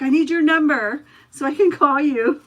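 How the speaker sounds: loud, high-pitched mock urgency; retold pleading. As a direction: imitate an anxious trainee begging for help. Retelling trainee's plea.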